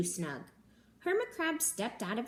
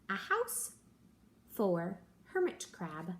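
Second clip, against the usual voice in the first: title read out. Acted. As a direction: announce the title brightly. Reading the book title aloud.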